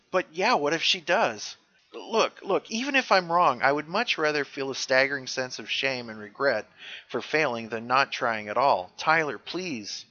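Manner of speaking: lightly imitated earnest plea; animated mock begging; acted pleading. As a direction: plead a friend into helping. Acting McQuaid pleading with Tyler.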